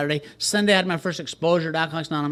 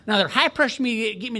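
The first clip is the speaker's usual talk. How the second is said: excited rant; 8 semitones higher than usual. Real, not acted. Animated rant about the place.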